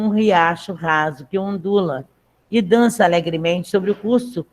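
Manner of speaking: measured text read aloud to the class. Acted. Teacher reading the text aloud to her class, measured. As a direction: read the passage clearly for students.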